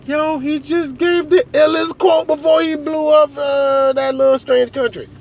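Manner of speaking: high-pitched awestruck citizen voice; impressed fan. Acted. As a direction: gush in a high, put-on voice.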